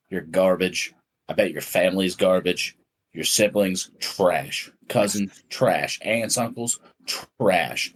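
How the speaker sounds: measured, punched-out contempt; teacher's rant. Acted. Teacher tearing into a student's whole family, mock-serious contemptuous rant. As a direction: list each insult with a hard, falling finish. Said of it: "poem I wrote called Teacher's Rant".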